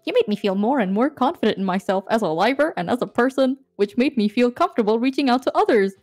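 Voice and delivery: even, measured read-aloud; heartfelt letter reading. Real, not acted. Reading a goodbye letter to a graduating friend, sincere.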